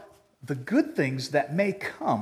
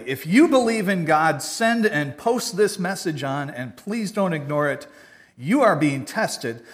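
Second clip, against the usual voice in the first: mock chain post; 5 dB louder than usual. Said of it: "I saw this on Facebook".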